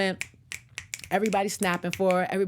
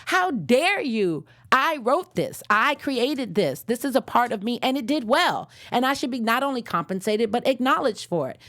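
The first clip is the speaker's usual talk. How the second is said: indignant writer; 5 semitones higher than usual. Retold or imitated. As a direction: play the wronged author, lightly. Voicing wronged writer demanding credit.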